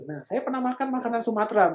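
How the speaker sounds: friendly small talk. Pretend. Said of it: "Nah kita bilang".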